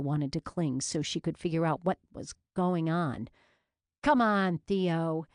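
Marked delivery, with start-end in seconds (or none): 4.0-5.2 breathless laughing plea; wheezing laugh. A narrator's reading. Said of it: "Vicky finally wheezed".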